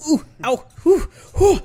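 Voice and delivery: high yelps over a burnt tongue. Real, not acted. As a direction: blow air past a scalded tongue. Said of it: "I just burnt my tongue".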